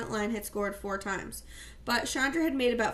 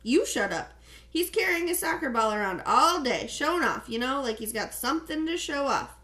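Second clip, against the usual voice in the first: annoyed retort; 3 semitones higher, 4 dB louder than usual. Acted. Victor argues back at Tino.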